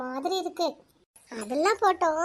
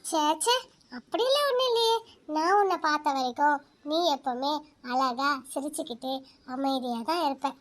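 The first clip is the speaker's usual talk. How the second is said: lower, softer confiding voice; a lonely girl confiding her sorrow to the moon; soft inner talk; 4 semitones lower, 4 dB quieter than usual. Acted. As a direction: talk gently to the moon in your head. Girl talks softly to the moon.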